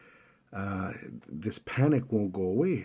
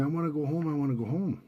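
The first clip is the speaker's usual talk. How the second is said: retold panicked yell; 5 semitones higher, faster than usual. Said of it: "he was panicking and he's yelling".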